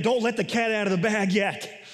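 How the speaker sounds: mildly stern paraphrased warning. Retold or imitated. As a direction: warn them firmly, lightly acted. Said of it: "Jesus said sternly".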